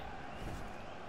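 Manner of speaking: choked cough. Real, not acted. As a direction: cough from choking on a celebration. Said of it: "I actually choked when I was celebrating".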